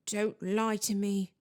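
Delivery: slow, tearful accusation; wounded ghost, slowly drawn out; tearful gasp. A narrator's reading. Crying ghost accuses the student of lying, gasping. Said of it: "Myrtle gasped, tears now flooding".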